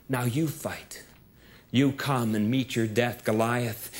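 quiet, low, cool challenge; soft, steely dare; young David, cool. Acted.

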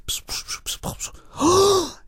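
psst-psst hushed whisper. Acted. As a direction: whisper it secretly. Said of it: "whispered to the princess".

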